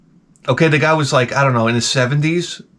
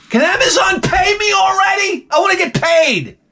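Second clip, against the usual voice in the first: high, shouted comic outrage; indignant demand. Real, not acted. Comic demanding sponsorship money from Amazon, indignant shout. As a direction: cry out high-pitched for what's owed.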